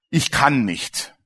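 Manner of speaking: slow, drawn-out helpless "I can't"; resigned refusal. Retold or imitated. Retelling the smoker friend's reply, slow and resigned. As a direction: drag it out like a man giving up.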